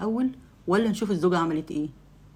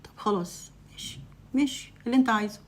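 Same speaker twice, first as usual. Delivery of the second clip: cold reply; 4 semitones higher than usual. Acted. Wife coldly giving in to her husband. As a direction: brush him off with icy indifference. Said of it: "فردت ببرود كده".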